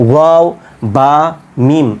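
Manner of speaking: ওয়াও, বা, মিম made with both lips; two-lip articulation. Shown as a demonstration. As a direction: shape ওয়াও, বা, মিম one at a time on the lips. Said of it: "দুই ঠোঁট থেকে।".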